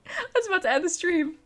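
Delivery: laughing through the words. Real, not acted. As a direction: giggle it out. Laughing apology to new arrivals.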